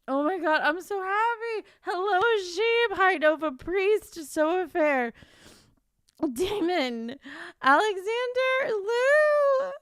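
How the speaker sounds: loud, high excited greetings; overjoyed. Real, not acted. Streamer greeting viewers on release day, loud and overjoyed. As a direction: squeal out each greeting, nearly crying with happiness.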